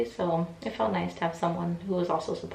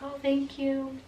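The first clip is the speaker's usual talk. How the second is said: touched thanks; 8 semitones higher, slower than usual. Retold or imitated. Her touched reply, acted.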